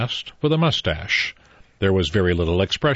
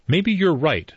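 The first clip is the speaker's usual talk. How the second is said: pacifically; 8 semitones higher than usual. A narrator's reading. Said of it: "said Mister Bloor pacifically".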